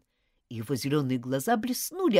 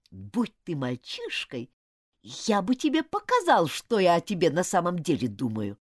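spiteful hiss; 3 semitones higher, 4 dB louder than usual. Acted. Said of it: "процедил он со злобой".

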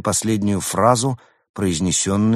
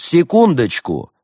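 high, loud, drawn-out interruption; ringing call; 10 semitones higher, 6 dB louder than usual. A narrator's reading. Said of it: "Раздался звонкий голос от двери".

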